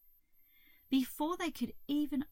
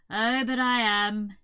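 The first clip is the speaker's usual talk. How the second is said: sad toad; 9 dB louder than usual. A narrator's reading. Toad contradicting Hazel's comfort, sad. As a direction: moan it as a miserable toad.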